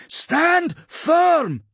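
high commanding battle shout; rally the troops with a loud order. A narrator's reading. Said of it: "she shouted".

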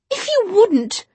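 high, loud, slow cruel jab; cutting retort. Acted. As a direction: deliver the insult slowly. Jessamine arguing.

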